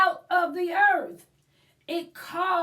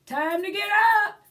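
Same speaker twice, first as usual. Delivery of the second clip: yawned; 5 semitones higher, 6 dB louder, much faster than usual. Acted. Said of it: "she yawned".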